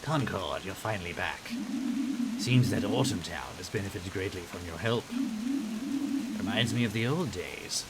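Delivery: sly, scheming vizier voice; oily scheming vizier; evil vizier voice. Acted. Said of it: "Why do you do an evil vizier voice for the grape?".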